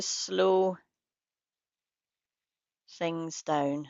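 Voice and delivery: unhurried guidance with long pauses between phrases; guided meditation. Real, not acted. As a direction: lead listeners gently into practice, leaving space after each phrase.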